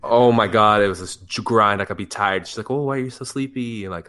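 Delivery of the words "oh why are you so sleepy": higher-pitched retold question; imitated girlfriend. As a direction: lightly voice a curious girlfriend.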